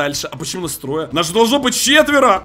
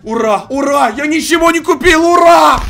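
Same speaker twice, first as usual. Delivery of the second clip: cheering; 6 semitones higher, 5 dB louder than usual. Real, not acted.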